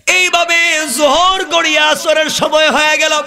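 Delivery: high-pitched, sustained sermon chant; full-force preaching. A narrator's reading. Preacher telling of crowds rushing to the funeral, high chanting sermon. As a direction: preach it high, holding the line endings.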